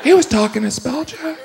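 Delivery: high, slow sarcastic thanks; drawn-out snide thank-you; mock thanks. Speller mocking spell check in a high slow voice.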